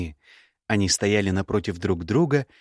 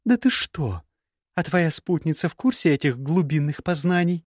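put-on young woman's voice pitched higher, cool and cutting; higher, cool scornful young woman; Gerda's voice; 7 semitones higher than usual. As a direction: play the proud, scornful ex-bride. Gerda mocks.

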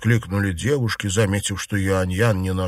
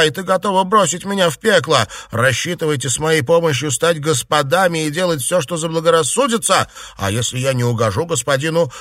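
much higher and louder raging abuse; furious tirade; 7 semitones higher, 4 dB louder than usual. A narrator's reading. Yuanyang cursing her sister-in-law after spitting at her, furious shouting. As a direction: spit the words at her in fury. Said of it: "стала ругаться".

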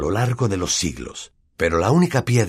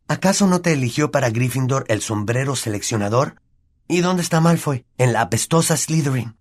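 Harry's voice; 6 semitones higher than usual. Acted. Harry cheers Neville up.

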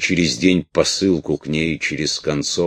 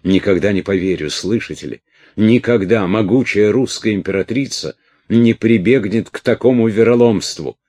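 furious; 6 semitones higher, 6 dB louder than usual. A narrator's reading. Prisoner rages at Orlov.

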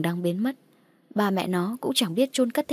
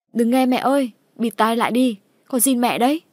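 loud, high, frantic plea through a door; desperate shout; 4 semitones higher, 6 dB louder than usual. Acted. Son shouting through the door at his mother, frantic yell.

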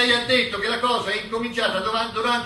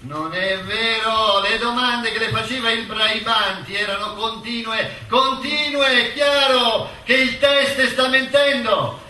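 nail the witness down, word by word; forceful accusation; 3 dB louder than usual. Acted. Prosecutor hammers lying witness.

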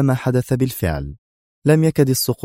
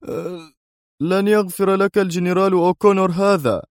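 voiced high, a sharp tearful threat; sharp anger; 10 semitones higher than usual. A narrator's reading. Dwight threatens Adham after crying, sharply. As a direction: spit the threat out through tears. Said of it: "يقول في حدة".

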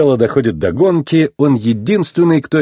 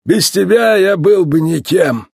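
slow, higher-pitched devotion; heartfelt, drawn-out declaration; loving; 7 semitones higher, slower than usual. A narrator's reading. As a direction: tell your wife lovingly. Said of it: "с любовью ответил ветеран".

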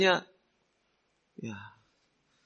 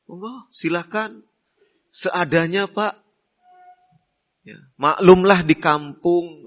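humble polite invitation. Retold or imitated. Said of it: "tapi dengan mempersilahkannya dengan, ya, baik".

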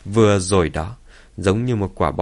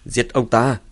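raised, goading voice; loud urging; 3 semitones higher than usual. Acted. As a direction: egg him on loudly to kill. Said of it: "Thái Hiền lớn giọng nói".

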